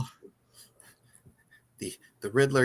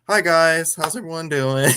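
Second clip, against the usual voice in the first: not menacing, a high, cheery "hi guys" greeting; light Riddler impression, upbeat and higher; chirpy friendly villain; 8 semitones higher, 4 dB louder than usual. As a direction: imitate the Riddler greeting his followers like a streamer. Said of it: "how his tone of voice changes".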